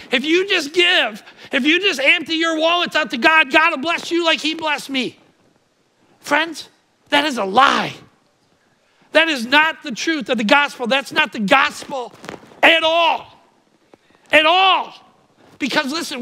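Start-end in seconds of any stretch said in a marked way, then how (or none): 0.1-5.2 shyster pastor. Retold or imitated. Preacher imitating a shyster pastor, pleading and louder. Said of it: "shyster of a pastor ... saying". 12.6-14.9 emphatic. Real, not acted. Preaching climax repeat.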